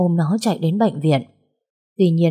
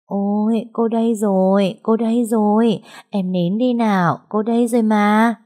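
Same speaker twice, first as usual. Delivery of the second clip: put-on soothing baby; 4 semitones higher than usual. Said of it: "thương đến thắt cả ruột".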